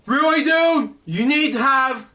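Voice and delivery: can you believe this; exasperated. Real, not acted. Reader scoffing at the waiter, exasperated. Reacting to the story.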